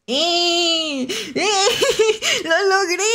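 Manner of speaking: high, laughing cheer of triumph; gleeful cheer. Real, not acted. Player celebrating a small big achievement, gleeful. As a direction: squeal with real delight at succeeding.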